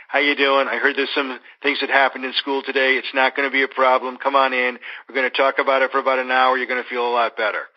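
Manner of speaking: even, unemotional reassurance; straightforward, easygoing welcome to a worried kid; matter-of-fact. Acted. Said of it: "there's something about the matter-of-factness".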